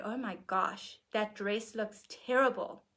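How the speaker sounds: hint of an American accent, slowing on the insult; lightly mock a blunt American remark. Caroline Myss's example insult, in a light American accent. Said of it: "in her American accent".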